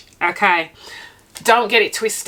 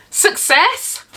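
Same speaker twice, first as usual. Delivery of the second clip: triumphant cheer; 9 semitones higher than usual. Real, not acted. Rating the cake triumphantly.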